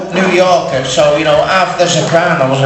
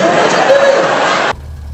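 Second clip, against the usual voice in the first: mock panic; much slower than usual. Panicking in the ring.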